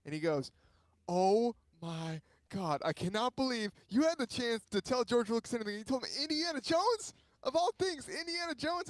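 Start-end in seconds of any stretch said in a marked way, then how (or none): 1.1-8.9 mock outrage at a friend's blunder; incredulous friend. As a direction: imitate an appalled fan, pitch climbing high. Retelling friend's disbelieving outburst.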